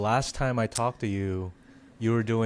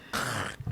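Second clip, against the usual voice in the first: short crackling mouth noise; imitated pepper crunch; 7 dB quieter than usual. Host describing veggie-eating videos, imitated crunch. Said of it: "the snap of, like, cracking in a pepper".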